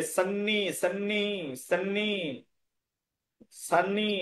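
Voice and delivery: সন্নি with doubled n and long falling "ee"; model pronunciation. Shown as a demonstration. Teacher drilling the student, সন্নি drawn out evenly. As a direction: repeat সন্নি slowly, holding the nn. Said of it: "এরকম উচ্চারণ হবে".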